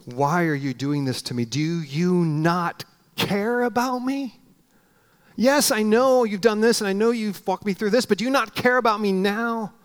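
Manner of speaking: from a whisper to a desperate question; anguished plea. Retold or imitated. Man after a panic attack asking God, rising into an anguished plea. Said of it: "I just remember thinking".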